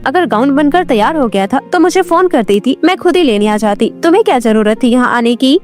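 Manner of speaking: fast, irritated reproach; mildly angry. Acted. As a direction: scold your mother quickly, mildly cross. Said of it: "काजल अपनी माँ पर बहुत गुस्सा हो रही थी". (हल्की नाराज़गी में तेज़ शिकायत)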